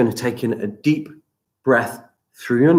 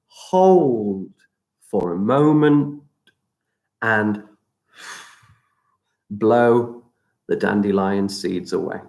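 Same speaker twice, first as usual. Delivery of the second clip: guided breathing. Acted. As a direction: guide the breath calmly, stretching words. Leads breathing exercise.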